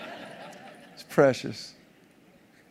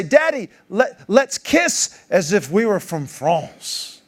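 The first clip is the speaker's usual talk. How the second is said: little daughter's voice; 5 semitones higher, 3 dB louder, much slower than usual. Retold or imitated. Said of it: "she would say".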